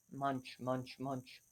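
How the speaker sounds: soft low chewing munch; sheep munching. Acted. Teacher voicing chewing sheep, softly. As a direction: chew it out like a grazing sheep.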